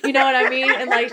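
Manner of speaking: laughing loudly mid-sentence. Real, not acted. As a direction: break into a laugh. Laughing after quoting husband.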